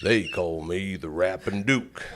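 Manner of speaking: imitated slow cowboy rap; slow John Wayne-style rap line; a novelty rap. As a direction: drawl it slowly like a rapping western star. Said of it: "he would rap like John Wayne".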